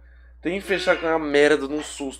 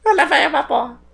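high, loud parody of his friend; mocking echo; 8 dB louder than usual. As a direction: ham up the friend's scream. Friend echoes the reaction.

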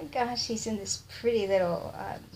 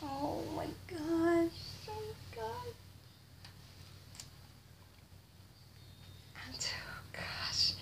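awed hush; 5 semitones higher, 11 dB quieter than usual. Real, not acted. Unboxing reveal, awe.

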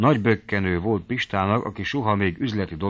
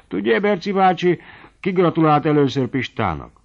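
light, higher, smiling teasing question; with a gentle smile; 7 semitones higher, 3 dB louder than usual. A narrator's reading. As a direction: ask it with a sly little smile. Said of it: "mondta Lina finom mosollyal".

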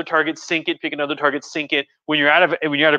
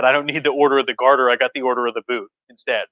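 joking quote; 2 semitones lower, faster than usual. Retold or imitated. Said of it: "famously joked".

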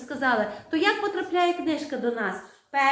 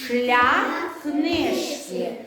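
slow choral reading; slower than usual. Shown as a demonstration. Teacher leads pupils reading the text aloud, slow and clear. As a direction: read aloud slowly together with clear stress. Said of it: "З наголосом чітко разом".

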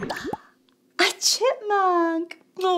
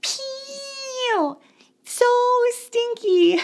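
pinched-nose voice; holding nose; 8 semitones higher, much slower than usual. Pretend. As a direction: talk with your nose held. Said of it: "hold my nose and say".

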